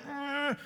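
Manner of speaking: high-pitched sick "ugh"; imitated queasy groan. Mimics feeling sick from Gatorade.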